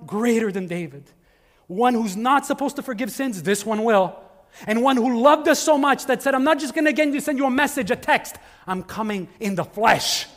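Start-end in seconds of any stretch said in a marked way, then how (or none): 1.7-10.3 high, driving preacher's build; impassioned preaching. Acted. Preacher proclaiming Christ's coming to the congregation, impassioned. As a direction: preach it with rising fervour, punching the key words.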